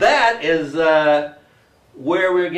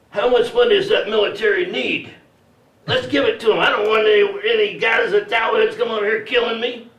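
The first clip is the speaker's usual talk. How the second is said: high, loud panicky citizen act; mock alarm; 7 semitones higher, 5 dB louder than usual. Comic voicing citizens funding the military, loud mock alarm. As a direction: blurt it out like a hammed-up frightened voter.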